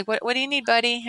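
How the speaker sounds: kneel down and ask kindly; reassuring. Retold or imitated. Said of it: "lots of smiling, lots of reassuring".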